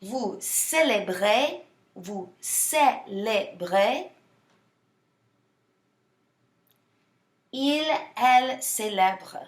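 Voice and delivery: célèbre said slowly and clearly, with a long pause after each form; teacher says each form slowly so the students can repeat it; slow model for repeating. Shown as a demonstration. Slow, clear repeat-after-me model. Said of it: "I'm gonna say it".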